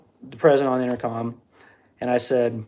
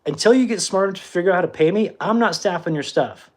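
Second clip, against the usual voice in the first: going nuclear; 5 semitones higher than usual. Retold or imitated. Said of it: "So I started going nuclear on people".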